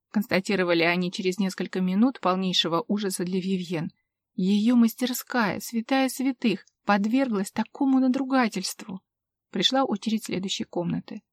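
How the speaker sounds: ordinary delivery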